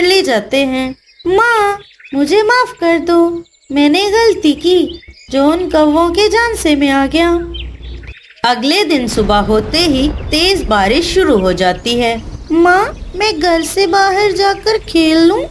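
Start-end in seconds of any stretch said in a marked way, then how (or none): 1.3-7.4 lightly voiced little chick saying sorry; a small child owning up; higher child voice. Chick apologises to mother. 12.5-15.4 lightly voiced eager chick; a little one asking permission; higher child voice. Chick asks to go play.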